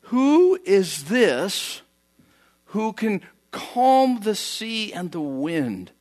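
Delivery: very slow, drawn-out hushed amazement; awestruck wonder. Retold or imitated. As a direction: let each question hang in awe. Terrified disciples ask in awe.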